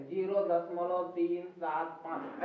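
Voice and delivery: "Zero दशमलव तीन सात पाँच" slowly, each digit separate. Shown as a demonstration. Teacher showing how to read a decimal, digit by digit. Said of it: "एक एक पढ़ते".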